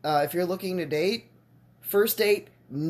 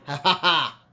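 laughing; 4 dB louder than usual. Real, not acted. Laughing at video.

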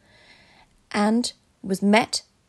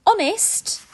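pleading; 11 semitones higher than usual. A narrator's reading. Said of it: "stammered Cam".

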